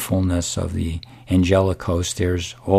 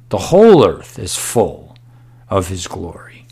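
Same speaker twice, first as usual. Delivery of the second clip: loud then whispered; 4 dB louder than usual. Acted. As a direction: start loud on whole earth, drop to a whisper on of his glory. Preacher repeats verse, then hushes.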